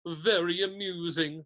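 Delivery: slow, unamused sarcasm; dark. A narrator's reading. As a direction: draw it out with dark displeasure. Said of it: "said Nearly Headless Nick darkly".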